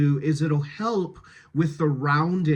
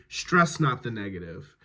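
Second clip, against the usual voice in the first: "Stress" emphasised, "not" left lighter; stress off the negative; 5 semitones lower than usual. Shown as a demonstration. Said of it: "stress is always on the non-negative".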